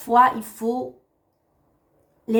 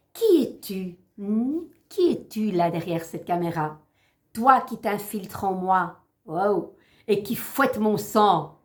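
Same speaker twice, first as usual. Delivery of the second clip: poem recitation. Acted.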